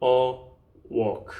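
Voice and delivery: "take... a... walk" with long pauses; word by word. Shown as a demonstration. Teacher spells out the phrase while writing, word by word. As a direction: space out "take", "a", "walk" one at a time. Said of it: "take a walk를 해볼게요".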